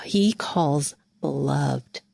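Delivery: a hushed, unvoiced murmur of affection; gentle whisper. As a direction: breathe the words gently like a loving voice. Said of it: "hear him speak with gentleness in his voice".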